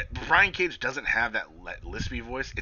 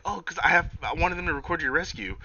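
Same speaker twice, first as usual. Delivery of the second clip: high mock voice; 7 semitones higher than usual. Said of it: "Reba was like".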